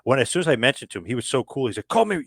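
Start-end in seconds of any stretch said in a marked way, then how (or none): 1.9-2.2 high-pitched bad French Canadian accent; badly faked French Canadian accent; horrible French Canadian accent. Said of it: "my horrible, uh, French Canadian accent here".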